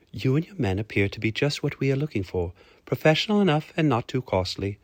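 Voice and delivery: lightly voiced lady client; approving, with a lift on the second phrase; businesslike lady. Lady appraises Hamish and his men, businesslike approval.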